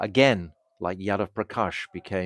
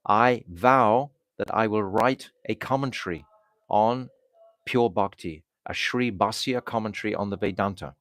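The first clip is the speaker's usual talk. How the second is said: louder, proclaiming a vow; solemn loud vow; 3 dB louder than usual. Retold or imitated. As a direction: declare it like a sacred oath. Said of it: "he says very loudly".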